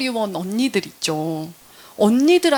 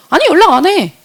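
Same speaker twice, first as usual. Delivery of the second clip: a loud, higher, curt "no"; loud blunt reply; 6 semitones higher, 7 dB louder than usual. Retold or imitated. The unni bluntly saying she never calls her mom. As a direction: brush the question off loudly.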